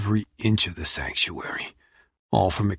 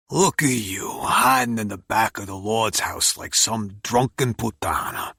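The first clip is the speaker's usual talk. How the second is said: gruff uncle voice; 2 semitones higher than usual. Acted. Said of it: "a gruff voice says beside me".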